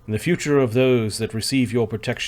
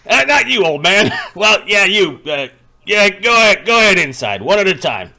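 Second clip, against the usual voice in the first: loud, high guard orders; barking guard; 7 semitones higher, 6 dB louder than usual. Acted. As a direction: bark orders at the line. Guard ordering them inside.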